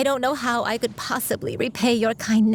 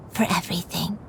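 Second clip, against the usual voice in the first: a soft whisper that trails away; fading last words; 3 semitones lower, 4 dB quieter, faster than usual. Acted. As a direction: let the final breath carry it. Dying granny's last words.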